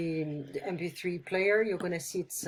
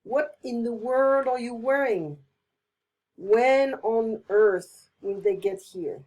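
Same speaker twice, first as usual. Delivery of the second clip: louder, slow exasperated questions; louder slowed exasperation; strong feeling; 2 semitones higher, 5 dB louder, slower than usual. Shown as a demonstration. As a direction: demand an answer, exasperated. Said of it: "show different strong feelings".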